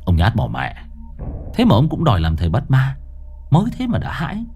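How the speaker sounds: scornful scolding, fast. Acted. Master scolding Môn Phọt, scornful. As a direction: tell off the coward. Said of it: "Cậu trợn mắt mắng Môn Phọt".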